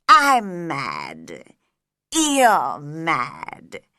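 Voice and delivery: slow, low, teasing cat; Cheshire Cat voice. A narrator's reading. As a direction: purr it with a grin.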